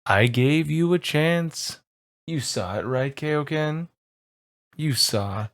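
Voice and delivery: villain confronting Kaioken; villain npc. Acted. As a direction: lean in, slow and wounded. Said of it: "he looks at you and goes".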